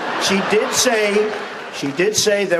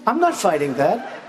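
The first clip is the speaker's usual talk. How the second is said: inner realization; 4 semitones higher than usual. Retold or imitated. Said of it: "I said to myself".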